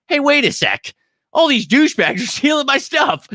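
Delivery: high, loud, laughing mock shout; sudden shout breaking into a laugh; outraged yell. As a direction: yell it like you just caught the thieves. Outraged quote of own reaction.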